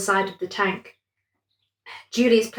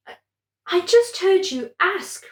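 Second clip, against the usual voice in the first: surprised; 10 semitones higher than usual. A narrator's reading. Amber's voice, high.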